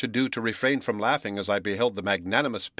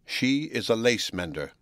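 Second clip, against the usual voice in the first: slow words with glee held back; slow, repressed glee. Acted. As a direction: savor each word, barely hiding delight. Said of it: "uttering the words slowly, but with repressed glee".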